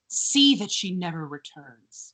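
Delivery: low, measured ominous order. Acted. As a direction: intone it as a dark command. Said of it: "ominous thing".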